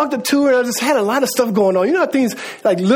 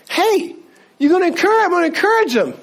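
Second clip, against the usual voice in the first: voicing God; 7 semitones higher than usual. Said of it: "I'm telling you that God said".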